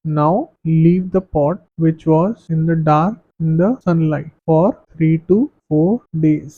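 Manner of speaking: very slow, even reading of notes; slow classroom dictation. Acted. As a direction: spell the definition out for students to copy. Reads activity steps aloud.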